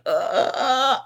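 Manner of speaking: high, strained victim noise; imitated squeezed groan. Podcaster imitating people squeezed inside the creature, strained groan. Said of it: "squeeze and they're just like".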